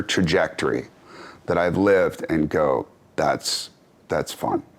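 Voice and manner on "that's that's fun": softer and lower, a quiet amused murmur; amused musing. Pretend. Softly musing to himself on his deathbed, amused. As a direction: savor it like a private joke at life's end. Imagining his last moment, chuckling.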